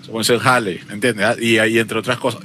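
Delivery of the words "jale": "jale" opening on an audible Spanish J sound; H pronounced as J. Shown as a demonstration. Explaining Mexican speech to friends, "jale" with H sounded as J. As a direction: say "jale" with a rasped J where the H would be. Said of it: "se pronuncia la H como J".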